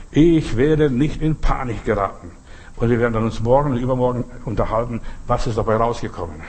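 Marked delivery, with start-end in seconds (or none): 0.1-2.3 slow dictation. Shown as a demonstration. Preacher dictates a line to write.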